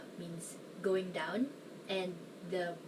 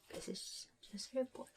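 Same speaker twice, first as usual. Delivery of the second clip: laughing aside; 5 semitones higher, 11 dB quieter than usual. Real, not acted.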